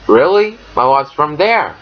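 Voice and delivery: "there" lifted up in pitch at the end; teacher demo, "Really?" high and surprised, then "there" rising. Shown as a demonstration. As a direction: let "there" rise, known information. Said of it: "which refers to Vietnam, also goes up".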